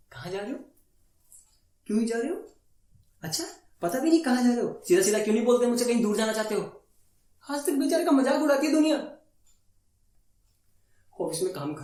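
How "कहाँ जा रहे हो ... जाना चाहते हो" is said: mock interrogating wife. Columbus's wife questions his voyage, lightly mimicked suspicious nagging.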